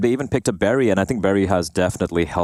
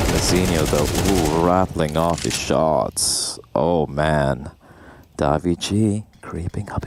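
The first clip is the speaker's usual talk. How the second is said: low, slow seductive play-by-play; sultry narrator; 4 semitones lower than usual. Pretend. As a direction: purr the commentary like a seduction. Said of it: "Come on, give me some more seduction".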